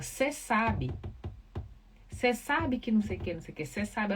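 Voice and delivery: casual, chatty TV host voice, clipped "Cê sabe"; breezy morning-show chatter, lightly voiced; a light take on a relaxed breakfast host; imitating Ana Maria Braga. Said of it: "a Ana Maria Braga, de manhã, ela fala".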